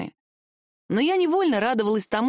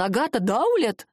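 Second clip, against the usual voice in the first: amazed full name, swooping up then falling; astonished exclamation. A narrator's reading. Shoemaker realizing who his customer is, astonished. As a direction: swell on the surname in disbelief. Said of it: "воскликнул он".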